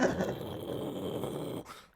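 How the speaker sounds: long breathy whoosh of flame; imitated flamethrower roar. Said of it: "the torch sounds like a flamethrower".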